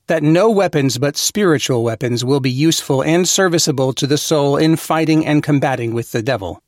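ordinary talk

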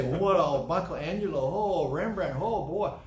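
loud, gushing mock raptures; a hammed-up gush of praise; gushing over-praise. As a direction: lay the flattery on thick. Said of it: "wanted me to fall all over him and kiss him".

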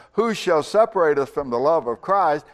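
a touch of open defiance; challenging. Retold or imitated. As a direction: put it out as a bold question, only lightly acted. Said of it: "he's standing up and challenging the universe".

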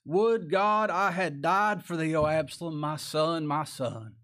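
drawn-out, slow retold lament; imitating David's loud, slow wail of grief; crying out loud. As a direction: cry out slowly as a grieving father, mildly acted. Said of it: "He cried out loud".

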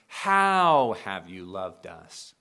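retorting Israel, dripping with sarcasm; sarcastic. Retold or imitated. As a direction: lean on HOW with a sarcastic edge. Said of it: "hear the sarcasm in the statement".

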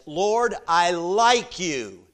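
drawn-out, very slow admission; slow Peter reply. Acted. Peter answering the Lord, slow and sheepish. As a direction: stretch out the I like you. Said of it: "Peter says".

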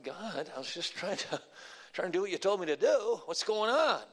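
plaintive, rising complaint to God; questioning God. Pretend. Preacher imagining arrest, complaining to God. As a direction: ask God why, hurt and puzzled. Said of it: "I'm asking some questions".

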